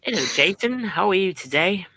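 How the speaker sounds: polite British greeting; lightly attempted British hello; British accent. Shown as a demonstration. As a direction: put on a genteel British accent. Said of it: "wants to see a British accent".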